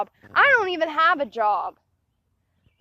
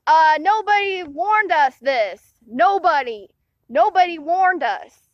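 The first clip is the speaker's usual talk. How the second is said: louder, insistent complaint; real frustration; 5 dB louder than usual. Real, not acted. A student venting that nobody warned them. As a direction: stress every nobody hard. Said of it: "it made me so mad".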